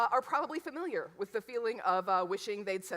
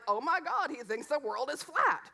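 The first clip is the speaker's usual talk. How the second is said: lightly hammed-up shock, pitched up; mock outrage; 5 semitones higher than usual. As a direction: imitate people losing their minds, half-seriously. Mimics people losing their minds.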